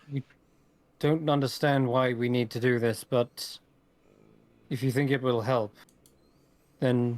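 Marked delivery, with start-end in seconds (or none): none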